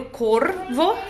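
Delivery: "corvo" slowed, r drawn out; "corvo" with a lingering r; strong r vibration. Shown as a demonstration. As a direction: hold the r in "corvo". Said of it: "Aquela vibração mais forte".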